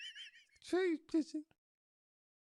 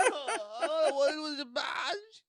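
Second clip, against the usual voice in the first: mock crying; much slower than usual. Wife crying over lost nipple.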